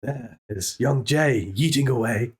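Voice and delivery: slow hushed nature documentary narration; David Attenborough. Pretend. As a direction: narrate slowly like a wildlife film. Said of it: "All right, David Attenborough".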